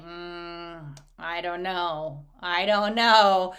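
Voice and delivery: slow, low, unconvinced hedging; acted weary hesitation; eye-rolling reluctance. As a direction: drag it out like a wife dodging an advance. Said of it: "rolls her eyes".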